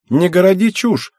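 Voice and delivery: high, mildly scornful dismissal; light scoff. A narrator's reading. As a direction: wave it away with a smirk. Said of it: "усмехнулась Цугару".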